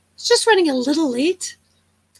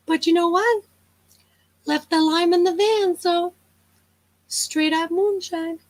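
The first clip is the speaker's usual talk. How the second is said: bad impression. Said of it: "it's such a bad impression".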